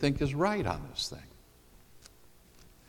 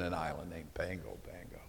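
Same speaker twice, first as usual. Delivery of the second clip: whispered aside; 7 semitones lower, 17 dB quieter than usual. Real, not acted. Whispered aside about the island.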